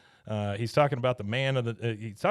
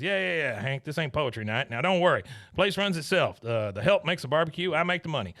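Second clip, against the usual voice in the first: Buck; 3 semitones higher than usual. Retold or imitated. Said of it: "He goes".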